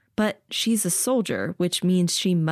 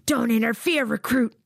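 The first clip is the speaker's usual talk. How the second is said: raised commanding voice; stern command; 6 semitones higher than usual. A narrator's reading. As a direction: order them back sharply. Officer commands.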